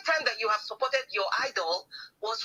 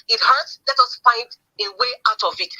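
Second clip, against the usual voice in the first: mock sympathetic tone; 7 dB louder than usual. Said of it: "Your tone started to change".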